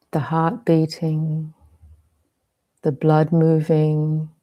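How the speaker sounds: measured meditation guide, long pauses between phrases; guided meditation. Real, not acted. Teacher leading listeners into meditation on bodily sensation, spacious guided delivery. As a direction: guide them gently into body awareness, leaving space.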